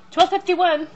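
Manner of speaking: loud high "Twelve" falling hard; exasperated. Real, not acted. Mom telling viewers how late it got, indignant and loud. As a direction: announce the hour like it's outrageous.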